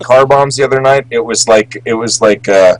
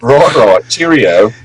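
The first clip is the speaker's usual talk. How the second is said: lightly mocking British lawyer's accent; 3 semitones higher than usual.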